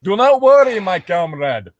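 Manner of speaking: reassuring princess. Acted.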